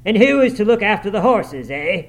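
loud, high challenging question; indignant master's outburst; angry exclamation. A narrator's reading. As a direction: demand an answer with a sharp "eh?". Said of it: "exclaimed his master".

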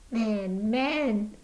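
cry of warning. Acted. Woman crying out to the stranger, urgent. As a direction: cry out to make him listen. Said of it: "she cried".

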